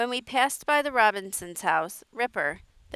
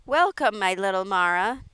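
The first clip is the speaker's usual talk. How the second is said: a lifted, louder welcome; exclaiming warmly; 6 dB louder than usual. Acted. Aunt Edith gathering Mara into her arms, exclaiming. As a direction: burst out with the greeting. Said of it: "she exclaimed".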